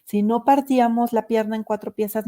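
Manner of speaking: lightly voiced grandmother matter-of-factly explaining; a hint of the old great-grandmother answering. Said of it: "la bisabuela dice".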